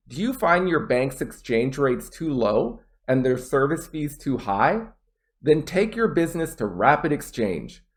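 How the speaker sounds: proper intonation, stressed content words, strong pauses; rising questions, then a confident answer, cleanly phrased; clear model reading. Shown as a demonstration. Teacher reading the whole exam passage, clear delivery. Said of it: "notice how I put proper intonation".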